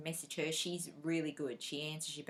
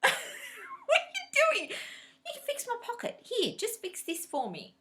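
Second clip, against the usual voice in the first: retelling her own laughing protest; laughing disbelief; 13 semitones higher, 5 dB louder than usual. Retold or imitated. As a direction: laugh through the words in disbelief. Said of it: "and I'm like".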